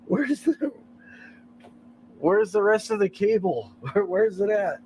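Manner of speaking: high, baffled questioning; acted bafflement. Acting out his baffled reaction.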